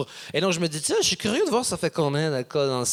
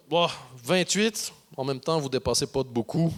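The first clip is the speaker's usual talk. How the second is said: easygoing Belgian cop; 5 semitones lower than usual. Retold or imitated. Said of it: "une réaction tellement belge".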